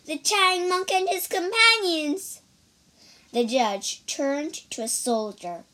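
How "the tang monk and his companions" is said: high, spiteful accusation; through gritted teeth. Acted. Lady Ku accuses the monks to the judge, spiteful. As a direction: spit out the names with hatred. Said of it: "Lady Ku gritted her teeth".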